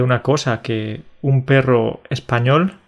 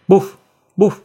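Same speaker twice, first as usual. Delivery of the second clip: dog bark; 7 semitones higher, 5 dB louder than usual. Shown as a demonstration. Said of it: "el perro estadounidense va a decir".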